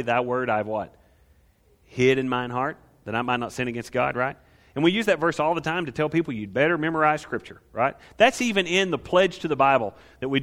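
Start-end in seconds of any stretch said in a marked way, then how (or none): 0.0-4.1 recited the way it was learned; old King James wording. Shown as a demonstration. Preacher reciting the childhood version of the verse. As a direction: rattle off the memorized old version. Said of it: "You probably learned it the other way".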